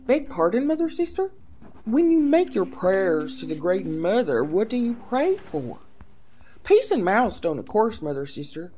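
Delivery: a hint of a timid young girl answering; young princess voice. Becca answers the abbess.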